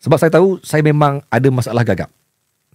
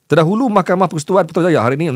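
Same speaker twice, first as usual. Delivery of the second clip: news reading that jams mid-sentence; stuck while reading; 4 semitones higher, faster than usual. Real, not acted. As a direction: restart the news line and get stuck. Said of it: "nampak, stuck lagi".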